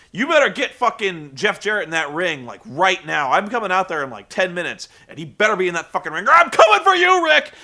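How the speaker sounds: hammed-up angry promo; mock threat building to a yell. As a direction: threaten him, then explode on the last words. Kurt Angle threatening, quoted.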